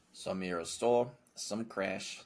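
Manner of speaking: Hang Time voice. Acted. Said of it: "I love the voice you chose for hang time".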